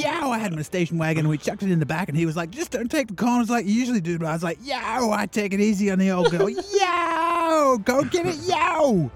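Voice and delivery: put-on American accent. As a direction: hype it up, American style. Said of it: "your Donald Trump impression".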